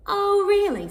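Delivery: high, loud indignant cat; a cat bristling at a cheeky bug. Acted. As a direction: scoff at the flea in disbelief. Cat answers the mocking flea.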